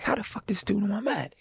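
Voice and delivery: whispered to himself; inner whisper. Retold or imitated. Musician privately wondering how the stranger knew, whispered.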